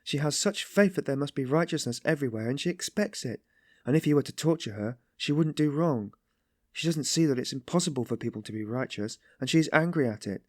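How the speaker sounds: high, impassioned defence; deeply stirred. A narrator's reading. Sonia defends Katerina to Raskolnikov, stirred and anguished. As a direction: champion her with compassion, voice lifted. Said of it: "stirred to the very depths".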